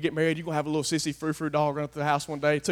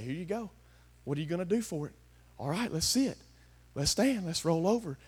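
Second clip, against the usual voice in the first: softer, dangling a treat with a taunt; teasing dog trainer; 7 dB quieter than usual. Retold or imitated. Pastor mocking a God who makes you earn it, teasing softly. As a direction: hold the reward out of reach, teasing. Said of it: "dangle a morsel ... and say".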